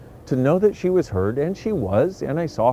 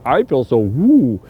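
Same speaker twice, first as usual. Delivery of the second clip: woo energy; 3 semitones lower, 5 dB louder, slower than usual. Shown as a demonstration. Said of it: "And you're like".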